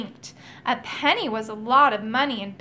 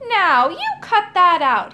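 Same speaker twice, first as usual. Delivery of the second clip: higher, louder scolding cry; cried out; 6 semitones higher, 7 dB louder than usual. A narrator's reading. Magician crying out at the vines, louder and higher. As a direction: yell at the vines to stop. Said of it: "he cried".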